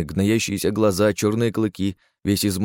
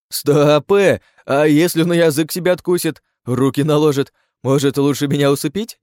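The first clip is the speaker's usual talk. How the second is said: louder and higher, alarmed; alarmed shouting; 6 semitones higher, 6 dB louder than usual. Acted. Bound chief to comrades, alarmed loud shouting. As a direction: stop them in a panic.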